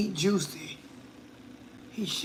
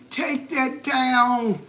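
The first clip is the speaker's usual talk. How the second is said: stern order; 4 semitones higher, much slower than usual. Retold or imitated. Scolding granddaughter about TikTok video.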